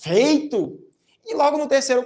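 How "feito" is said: "Feito" exclaimed with a falling tune; emphatic, drawn-out "Feito"; exclamation. Shown as a demonstration. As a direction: exclaim "Feito" to seal the deal. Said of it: "Aí ele também exclama".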